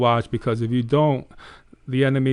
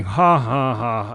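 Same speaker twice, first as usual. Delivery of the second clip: mock evil laugh; 3 semitones lower, much slower than usual. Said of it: "this being laughing at me".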